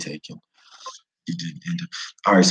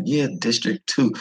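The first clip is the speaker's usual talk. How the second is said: insisting a little higher; mild repeat for locals; repeating it, unheard; 4 semitones higher than usual. Retold or imitated. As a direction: say it again hoping they get it. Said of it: "no matter how I said District two".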